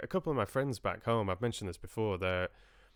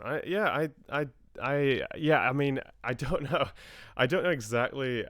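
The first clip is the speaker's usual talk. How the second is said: higher, louder Scottish accent; 5 semitones higher, 5 dB louder than usual. Shown as a demonstration. Demonstrates Scottish accent under discussion.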